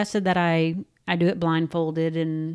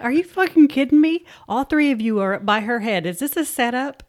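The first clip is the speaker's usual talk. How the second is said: mock outraged yell; 4 semitones higher, 4 dB louder than usual. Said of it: "I'm like".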